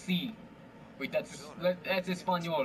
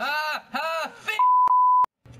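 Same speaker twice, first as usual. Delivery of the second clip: rising shout; 11 dB louder, much slower than usual. Pretend. Rising fake curse, cut off.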